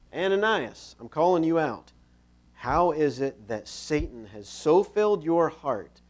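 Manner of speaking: loud, accusing call-out; stern confrontation. Acted. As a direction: call out a wrongdoer by name. Acting Peter confronting Ananias publicly.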